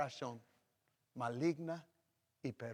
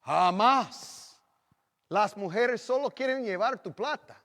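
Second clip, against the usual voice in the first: put-on young son refusing marriage; 6 semitones higher, 7 dB louder than usual. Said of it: "¿sabe lo que hubiera dicho?".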